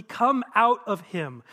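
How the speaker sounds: slow, mildly stern command. Acted. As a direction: order it out firmly, taking your time. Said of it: "Jesus said sternly".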